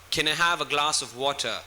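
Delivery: clear, crisp British accent with a sounded T in "water". Shown as a demonstration. Teacher modelling British for students, crisp British accent. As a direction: ask it in careful British English. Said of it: "That's British".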